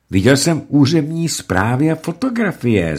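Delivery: exclaiming. A narrator's reading. Göring insisting on his proof in an exclamation. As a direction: call it out emphatically.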